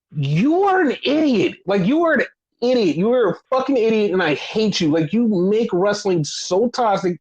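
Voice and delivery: emphatic, insulting tirade; angry rant. Real, not acted. Fan berating toxic wrestling fans, exasperated. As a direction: lean hard on each insult. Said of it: "stop my rant there".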